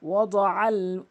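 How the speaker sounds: আল with the ain sounded from the throat; correct ain. Shown as a demonstration. Teacher showing students the correct ain, firmly. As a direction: voice the ain clearly in আল. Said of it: "আইনের উচ্চারণ করতে হবে".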